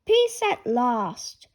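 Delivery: very slow, relieved; tired dad relieved; relieved sigh. Acted.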